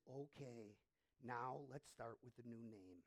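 soft, calm fatherly voice; gentle reassurance. Pretend. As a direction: say it softly, like welcoming him. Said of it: "God says".

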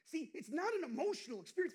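loud, high-pitched preaching burst. Real, not acted. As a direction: lift the congregation with conviction.

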